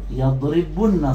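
يضربن said slowly as yaḍribunna, short u, held double n; doubled nun. Shown as a demonstration. Teacher shows the form after deletion, slow يضربن with held nn. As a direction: dwell on the nn in "يضربن". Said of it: "فقلنا إيش؟".

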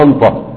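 أنطى with n for ع; istinta'. Shown as a demonstration. Teacher showing Iraqi-style istinta', ain turned to nun. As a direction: say أنطى not أعطى. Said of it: "يجعلون العين الساكنة نونا".

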